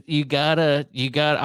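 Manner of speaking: faltering mock Indian accent; half-abandoned Indian accent; Indian scammer accent. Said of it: "I'm done, I'm not gonna do the accent".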